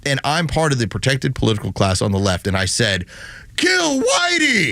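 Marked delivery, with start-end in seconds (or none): 3.6-4.7 slow, high mocking yell; mock slogan shout. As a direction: bellow it like a mock chant.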